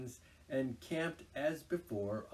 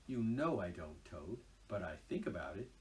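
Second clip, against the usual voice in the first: soft, lower, wistful, rising on think; pathetic Rat; 5 semitones lower, 5 dB quieter than usual. Acted. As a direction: confess the longing gently. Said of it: "he added pathetically".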